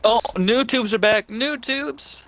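loud excited yell; thrilled game shout. Real, not acted.

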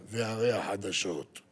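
slow deep newsreader; news announcer. Retold or imitated. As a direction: intone it like the radio news. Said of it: "יש לו קול כמו של קריין".

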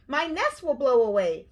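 high, loud worried bird; flapping alarm. A narrator's reading. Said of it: "flapped Bird".

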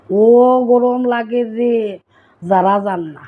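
a slow, stretched Sylheti complaint about the heat; Sylheti dialect, drawn out. Shown as a demonstration. Showing viewers how Sylhetis say it, drawn-out Sylheti. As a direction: stretch out "গরম" slowly in Sylheti speech. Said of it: "এটা হইল কি আমরা সিলেটি বাংলা".

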